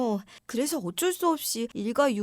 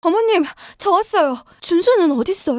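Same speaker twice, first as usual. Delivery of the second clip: anxious call; 2 semitones higher, 7 dB louder than usual. Acted. Daughter-in-law bursts in, worried.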